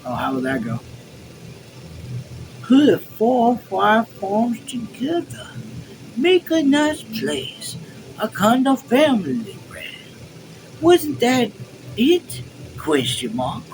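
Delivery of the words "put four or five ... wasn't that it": high, drawn-out mimicking voice; mocking imitation. Officer apes Tanner's dream of farms, high mocking imitation. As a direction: mimic him mockingly, pitched way up. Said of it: "he imitated Tanner's voice".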